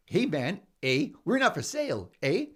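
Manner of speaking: put-on a light Canadian accent with a tagged-on eh; Canadian accent, mouth barely open, ending on eh; playful Canadian accent, Canada answering America. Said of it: "so how was my Canadian accent?".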